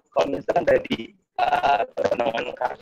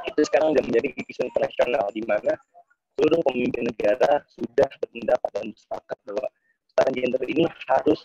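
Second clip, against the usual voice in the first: choppy connection. Real, not acted. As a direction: voice breaking up on a bad line. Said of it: "putus-putus".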